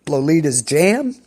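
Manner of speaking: talking through hiccups; hiccupping between words. Real, not acted. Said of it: "I got the hiccups".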